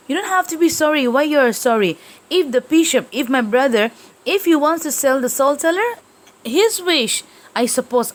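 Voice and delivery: high-pitched lofty dismissal; haughty scolding. Acted. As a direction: brush off the maid's apology. Teacher voices Persom again.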